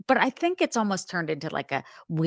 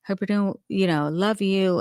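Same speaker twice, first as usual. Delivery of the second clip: higher, sugary fake-caring voicemail voice; imitating fake sweetness; 3 semitones higher than usual. Mocking a killer's voicemail to his wife, fake sweet. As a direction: play the lying husband leaving a sweet message. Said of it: "like a Scott Peterson".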